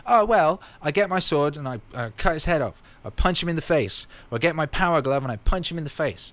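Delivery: high, loud and eager, playing his young son; kid's eager boast. Father imitating his son's dream boast, loud and high. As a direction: boast like a five-year-old with a sword. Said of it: "He's like".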